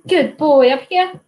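high-pitched praise and coaxing for a pet; dog talk. Real, not acted. Streamer getting Hudson up on the lap, high dog talk.

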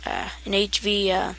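drowsy trailing mumble; sleepy, barely awake voice; half asleep. Real, not acted. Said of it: "I'm half asleep".

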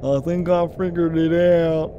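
put-on big southern redneck accent. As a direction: holler it like a mock redneck. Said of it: "Going back to redneck now".

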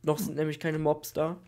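ordinary delivery

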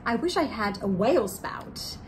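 drawn-out playful read to little listeners; reading to children. A narrator's reading. Co-host reading her turn of the story to children. Reads book aloud.

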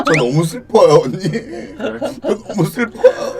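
mock sad. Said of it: "감정이 지금".

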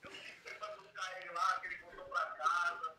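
on speakerphone. Real, not acted. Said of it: "Deixa eu pôr aqui no Viva Voz".

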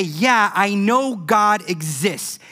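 a believer grumbling that God is silent; frustrated believer. Retold or imitated. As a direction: vent impatience at God. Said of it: "You might say".

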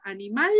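"Animal" stressed on the final "mal", rising; aguda stress. Shown as a demonstration. Teacher telling students to pronounce it aguda, "Animal" stressed on "mal". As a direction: lean on "mal" in "Animal" and lift it. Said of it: "la pronuncian aguda".

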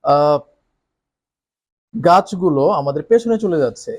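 put-on eager child. Shown as a demonstration. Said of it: "সে উৎসুক হয়ে বলছে".

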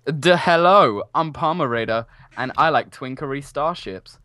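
deliberate caricature Asian accent; hammy fake Asian accent; mock Asian accent. Shown as a demonstration. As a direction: demonstrate a put-on Asian accent. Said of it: "perfect for the Asian accent".

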